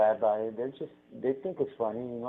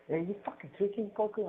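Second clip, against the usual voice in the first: mock boss calling him out; 10 semitones higher, 4 dB quieter than usual. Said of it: "looks me in the eye and goes".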